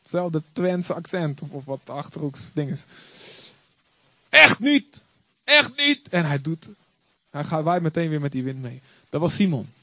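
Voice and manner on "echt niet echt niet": higher, louder panicked denial. Acted. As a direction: shout no way as if cornered. Peter denying Jesus. (luide, paniekerige ontkenning)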